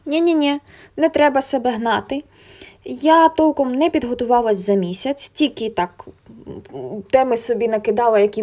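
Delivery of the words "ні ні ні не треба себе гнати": firm inner no. Retold or imitated. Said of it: "я подумала".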